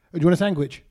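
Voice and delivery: "sandwich" said as "sangwich", a hard G before the W. Retold or imitated. Mimicking cousins offering a sandwich with a G. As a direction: put a G in "sandwich": "sang-wich". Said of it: "With the G".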